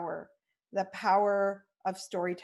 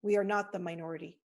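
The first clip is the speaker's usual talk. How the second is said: rousing speech. Real, not acted. Rallying closing call to action.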